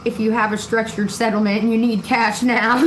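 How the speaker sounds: reading the ad joke while chuckling; laughing through the line. Real, not acted. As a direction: chuckle out the fake ad.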